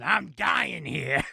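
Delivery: mock dying grandpa. Grandpa voiced dying in corner.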